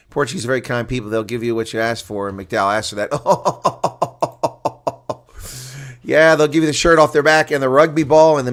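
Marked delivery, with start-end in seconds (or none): 3.2-5.1 short laugh. Real, not acted. Commentator amused by the blunder.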